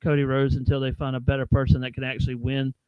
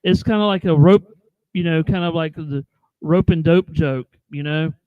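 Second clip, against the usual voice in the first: cave echo. Real, not acted. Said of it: "you're echoing real bad".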